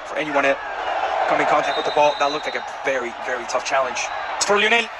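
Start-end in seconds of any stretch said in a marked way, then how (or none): 4.4-4.9 goal call. Real, not acted. Goal called live.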